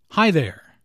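demonstrated "Hi there", up then down; greeting tune rising on "Hi", dropping on "there"; rise-fall greeting. Shown as a demonstration. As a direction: lift after "Hi", fall on "there". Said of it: "rises after hi and falls".

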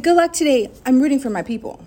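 loud friendly well-wishing; cheerful cheer. Retold or imitated. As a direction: cheer them on brightly. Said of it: "I was like".

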